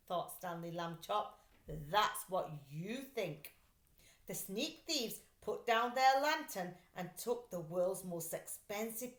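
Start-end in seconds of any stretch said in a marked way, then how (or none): 1.7-3.6 slow, smug comeback; defiant retort. Acted. Stanley's defiant thought.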